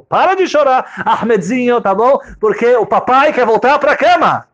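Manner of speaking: high, slow, strained plea to stop crying; a sleepy dad begging the baby to hush; annoyed father hushing baby. Acted. Father pleading with crying baby Ahmedzinho, high strained hush.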